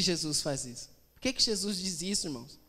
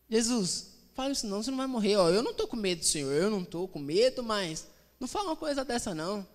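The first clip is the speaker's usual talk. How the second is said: acted anxious protest, pitched up in places; Pedro pleading; 3 semitones higher than usual. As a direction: beg him not to talk that way, half-comically. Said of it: "Aí Pedro chega em Jesus assim".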